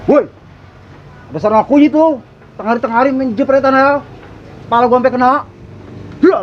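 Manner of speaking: high, sassy diva scolding; sassy drag queen. Acted. Ono mau kena pala bencong. (banci genit yang ngomel)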